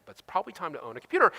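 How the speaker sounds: fast, tongue-in-cheek repeat of the line; wry repeat. Shown as a demonstration. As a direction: toss it off as an obvious renegade idea. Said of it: "I know, renegade idea".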